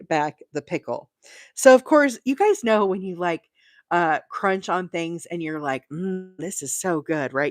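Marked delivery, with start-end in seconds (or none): 5.9-7.3 slow, exaggerated mm of delight; mock savoring. Shown as a demonstration. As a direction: oversell the taste to the dog. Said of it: "You do all the little".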